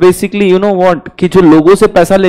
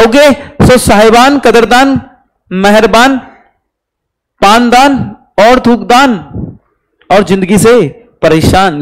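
mock showman announcer; 4 semitones higher, slower than usual. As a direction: roll out the welcome like a circus barker, hamming it up. Mock showman welcome to the class. (मज़ाकिया मंच-संचालक की तरह ऊँची, ज़ोरदार, धीमी पुकार)

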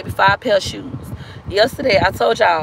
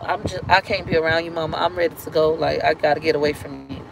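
sinking lower and softer, worn out; drained retold plea; 5 semitones lower, 4 dB quieter than usual. Telling mama she has to leave, lower and softer. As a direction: let the voice drop away as if exhausted.

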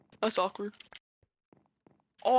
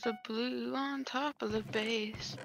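dramatic slow voice; 6 dB quieter, much slower than usual. Acted. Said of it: "That probably sounds so cringy".

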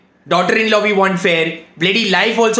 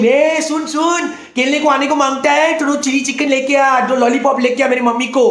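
put-on fast, higher boyish Hindi taunt; imitating a Hindi-speaking boy; 3 semitones higher, much faster than usual. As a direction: rattle it off like a cheeky kid. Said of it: "He's telling him".

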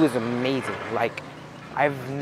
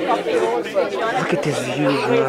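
awed; 5 dB louder, much slower than usual. Real, not acted. Reaching the top, awed.

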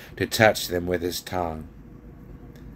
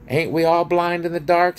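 high, loud dwarf voice; cranky high-pitched dwarf; scornful dwarf; 9 semitones higher, 5 dB louder than usual. A narrator's reading. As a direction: throw it back as a scornful retort. Dwarf retorts to the king.

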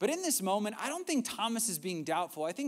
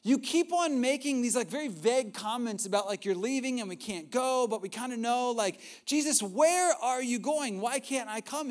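insistent Peter; 5 semitones higher, 6 dB louder than usual. Retold or imitated. Peter pressing Jesus at dinner, loud and insistent. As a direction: push him, he needs an answer now. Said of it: "He's like".

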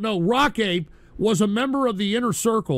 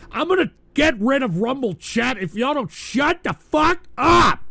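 angry outburst; 4 semitones higher, 3 dB louder than usual. Real, not acted. Threatening to remove the chat.

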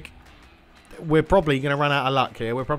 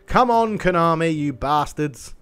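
frustrated outburst; 3 semitones higher, 4 dB louder, slower than usual. Real, not acted. Frustrated at pack opening.

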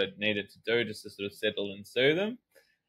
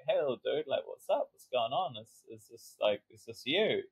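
put-on gentle to inner child; 3 semitones higher, 3 dB quieter than usual. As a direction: coax a shy little boy to talk. Speaking gently to her inner child.

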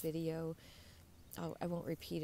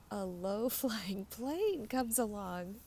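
laughing; 3 semitones higher, 3 dB louder, slower than usual. Real, not acted. Laughs at the plane.

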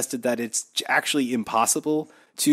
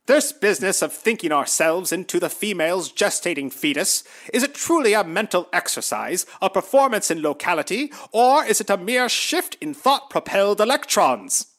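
mock earnest quote reading; 5 semitones higher than usual. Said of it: "this is one".

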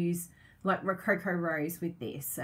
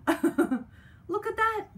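much higher and slow, laughing; slow high coo; 12 semitones higher, 4 dB louder, much slower than usual. Real, not acted. Crafter shows viewers the snow sheet, slow high coo.

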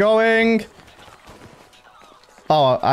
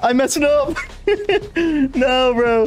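higher, exasperated yelp; frustrated outburst; 6 semitones higher than usual. Real, not acted. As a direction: cry out at the mistake. Failed the run.

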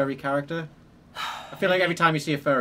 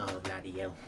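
mimicking the character; 7 semitones lower, 12 dB quieter than usual. Echoing game character's line.

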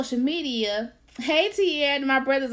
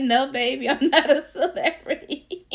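laughing reply; 3 semitones higher than usual. Retold or imitated. Answering niece, laughing.

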